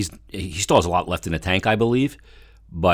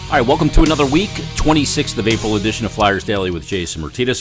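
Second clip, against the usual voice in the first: fast energetic intro; 3 semitones higher, 4 dB louder, faster than usual. Real, not acted. Podcast host's show opening.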